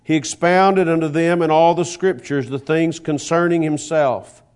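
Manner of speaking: measured, formal Bible reading voice; scripture reading. Acted. Preacher reading Luke to the congregation, formal and measured. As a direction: read the scripture aloud with solemn weight.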